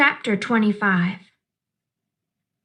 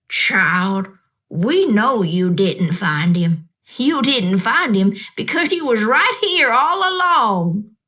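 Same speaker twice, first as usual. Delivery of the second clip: a lightly voiced old woman, kind and knowing; Gloria Dump. Old woman reassuring the upset child, gently amused.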